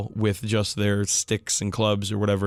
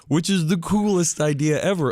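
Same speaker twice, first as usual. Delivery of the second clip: laughing, higher while gushing; laughing delight; 7 semitones higher than usual. Real, not acted. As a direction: giggle through the praise. Gushing about steam gargant.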